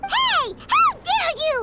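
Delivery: huffy, drawn-out indignation; indignant outburst. Acted. Paimon snapping back at Albedo's teasing, indignant.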